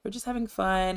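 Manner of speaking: soft, high-pitched "chill, it's fine" act; mock reassurance. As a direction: lightly play someone calming a worked-up friend. Voices Sim calming frustrated friend.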